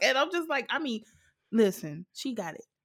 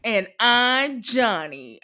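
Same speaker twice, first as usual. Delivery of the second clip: slow, lightly voiced Johnny intro; imitating Johnny; 3 dB louder, slower than usual. Fan recalls Johnny's intro, slow light imitation. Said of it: "the first thing I think of".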